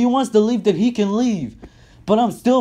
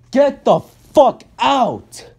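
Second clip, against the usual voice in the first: slow angry shout; slower than usual. Real, not acted. Final angry sign-off to coach.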